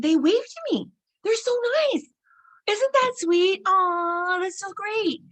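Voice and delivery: very high, cooing gush; naive delight. Retold or imitated. Telling the taqueria man how drivers wave, high naive gushing. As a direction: coo with delight, voice way up.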